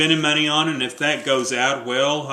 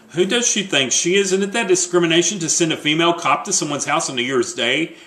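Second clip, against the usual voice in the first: louder, higher offended rant; indignant outburst; 3 semitones higher, 4 dB louder than usual. Acted. Wife outraged a female cop came, indignant rant. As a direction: huff in outrage.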